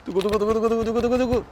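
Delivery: quick voiced drumroll before the reveal; mouth drumroll. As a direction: rattle off a drumroll to build tension. (결과 발표 전 입으로 내는 두구두구 드럼롤)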